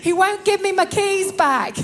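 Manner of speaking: high, laughing complaint; amused, half-laughing protest. Real, not acted. Laughs while preaching her comic story.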